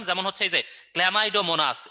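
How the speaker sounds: teacher slowly modelling Chlamydomonas for students; slow demo pronunciation. Shown as a demonstration. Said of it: "একে কেমন করে উচ্চারণ করতে".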